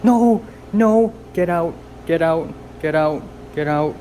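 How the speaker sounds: high furious shouts; screaming at flies. Real, not acted. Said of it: "I've screamed so much".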